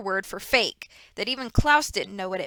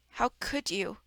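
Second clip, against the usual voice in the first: softer, strained "how could you"; hoarse whisper; 6 dB quieter, slower than usual. Acted. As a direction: barely get the words out in shock. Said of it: "Klaus whispered hoarsely".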